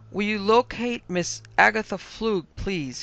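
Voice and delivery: dignified medium composing himself; recovered dignity. A narrator's reading. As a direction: ask with restored pomp. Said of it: "he recovered dignity".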